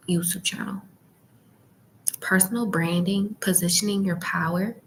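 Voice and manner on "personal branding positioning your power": library whisper. Real, not acted. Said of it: "um, whispering".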